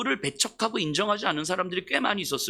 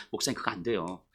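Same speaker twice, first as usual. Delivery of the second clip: low, soft grumbling refusal; mock refusal; 11 semitones lower, 6 dB quieter than usual. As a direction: mumble a lazy no to the pastor. Congregation refuses pastor. (교인이 목사님에게 낮게 중얼거리며 거절하듯)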